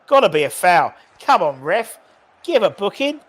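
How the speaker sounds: loud, high plea to the ref; pleading with the referee. Real, not acted. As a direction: beg the ref for the foul. Shouting at the referee.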